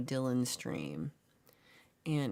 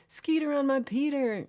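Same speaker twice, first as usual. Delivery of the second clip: laughing; 10 semitones higher, 7 dB louder than usual. Real, not acted. Laughing song title to chat.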